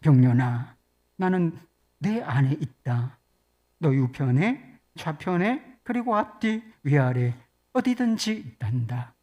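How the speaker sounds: lightly voiced, consoling God; God's comforting voice. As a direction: gently assure a hurting child. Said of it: "하나님의 음성을 들었고 위로를 받았다".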